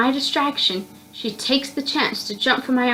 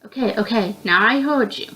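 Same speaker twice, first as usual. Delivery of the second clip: annoyed. Acted. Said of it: "I said, annoyed".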